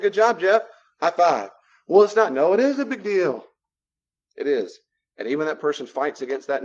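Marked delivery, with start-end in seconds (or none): 0.0-1.5 loud, high cheer; celebrating Jeff. Retold or imitated. Praising friend Jeff for saying no, loud happy cheer. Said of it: "I said".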